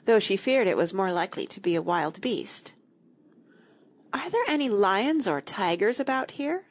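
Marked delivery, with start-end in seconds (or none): 4.1-6.6 timid, higher-pitched question; a touch of worry. A narrator's reading. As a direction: ask it nervously, voice lifted. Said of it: "she asked timidly".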